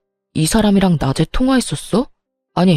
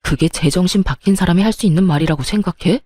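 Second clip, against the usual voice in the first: angry yelling. Acted. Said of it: "소리를 고래고래 지르며 시모에게 화를 내기".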